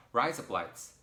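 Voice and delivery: lightly put-on Australian; Australian accent. Showing off to an Australian guy, mock Australian accent. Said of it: "like, your Australian accent".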